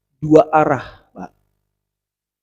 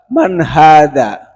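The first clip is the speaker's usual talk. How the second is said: Pharaoh's demand; 9 dB louder, much slower than usual. Acted. Pharaoh answers knock at door.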